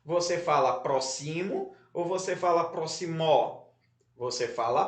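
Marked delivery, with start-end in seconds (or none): 0.8-1.7 "próximo" stressed on the middle syllable, pro-XI-mo, pitch rising; wrong stress on XI. Shown as a demonstration. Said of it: "no x i". 2.7-3.7 "próximo" stressed on the last syllable, pro-xi-MÓ; wrong stress on MÓ. Shown as a demonstration. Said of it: "no mó".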